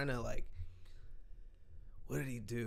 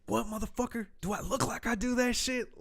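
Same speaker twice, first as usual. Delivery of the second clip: mock tough-guy challenge; 11 semitones higher than usual. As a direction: puff up and challenge him. Friend confronting a drug dealer.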